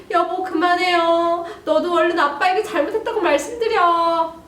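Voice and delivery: calm the fight as a worried mom; mother intervening. Acted. Mom begs dad to stop and daughter to apologise. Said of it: "엄마 그 옆에서 뭐라고 하냐면".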